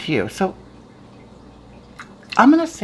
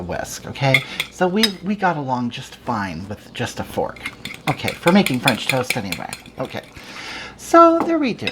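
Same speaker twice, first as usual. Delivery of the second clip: campy homely witch host; put-on cooking show hag; Hagatha character voice.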